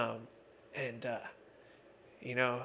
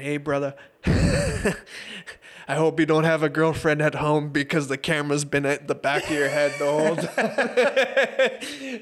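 put-on Dutch accent; 3 semitones higher, 9 dB louder than usual. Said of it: "his, uh, Dutch accent".

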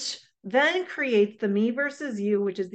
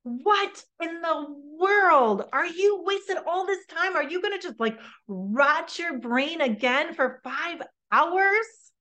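angry venting parent; 6 semitones higher, 4 dB louder than usual. Shown as a demonstration. Parent venting anger at son over video games, exasperated scold. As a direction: let the frustration burst out at the son. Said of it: "maybe it sounds something like this".

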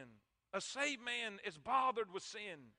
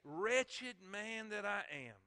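a call-and-response lament, loud then slowed; led loud exclamation; 6 dB louder, much slower than usual. Shown as a demonstration. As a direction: cry it out with the congregation, drawing it slowly. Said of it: "Say it with me".

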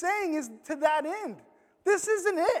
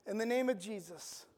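soft solemn invocation; 4 semitones lower, 9 dB quieter than usual. Shown as a demonstration. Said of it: "by all means".

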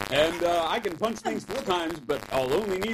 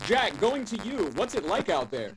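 news anchor voice; 4 semitones higher than usual. Pretend. News desk anchor bit.

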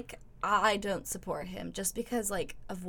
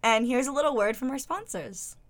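announcer read; 4 semitones higher, 3 dB louder than usual. Shown as a demonstration.

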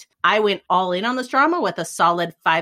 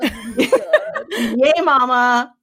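cheering through a laugh, a bit louder; 3 semitones higher, 4 dB louder, much slower than usual. Pretend. Host cheering to co-hosts, laughing through it. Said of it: "give us some team spirit".

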